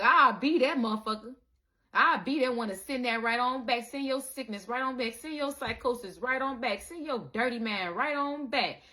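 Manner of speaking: defiant vow. Retold or imitated.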